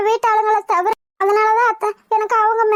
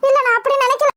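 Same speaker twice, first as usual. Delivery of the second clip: tearful; 5 semitones higher than usual. Acted. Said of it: "அழுகாதம்மா".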